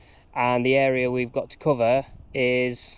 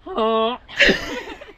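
goose honk; 9 semitones higher than usual. Pretend. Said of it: "Do you wanna try your goose impression again?".

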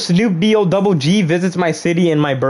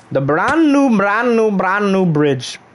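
proud hype; 5 semitones higher, slower than usual. Real, not acted. Showing off his new bridge.

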